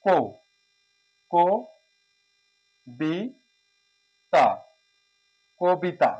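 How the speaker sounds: কো, বি, তা spoken slowly, one syllable at a time, the first vowel as "o". Shown as a demonstration. Teacher sounding out কবিতা for the class, slow and syllabic. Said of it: "এটা ওকার হয়ে যাবে".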